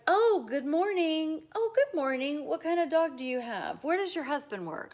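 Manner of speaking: loud, high, gushing greeting; overeager neighbour. Acted. Neighbour rushing too many rungs up, overeager. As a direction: gush all over them at once. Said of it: "that's too many rungs up".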